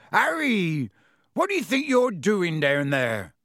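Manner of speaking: loud giant calling from afar; booming call. Acted. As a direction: call out across the alley. Hagrid calling from up the alley.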